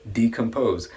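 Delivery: decompose, stress on DE; decompose demo. Shown as a demonstration. Teacher modelling decompose for learners. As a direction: say decompose, first syllable strong. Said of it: "The pronunciation of decompose is".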